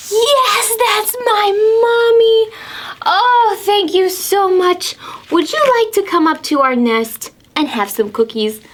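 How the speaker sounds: high delighted owl voice; a thrilled owl thanking the helpers; happy owl. Acted. Mama owl thanking squirrel and frog, high and delighted.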